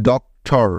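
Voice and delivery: ডক্টর broken in two, ডক, pause, টর; split into syllables. Shown as a demonstration. Teacher joining two syllables for learners, with a pause between. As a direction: say ডক্টর with a gap after ডক. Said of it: "একবার থামতে হচ্ছে".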